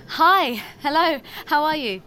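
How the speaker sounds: high, loud breathless greetings; giddy excitement. Acted. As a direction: gush nervously at your crush. Nervous excited call.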